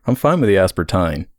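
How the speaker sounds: drawled Texan aspartame; Texan accent. Pretend. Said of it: "my Texan voice".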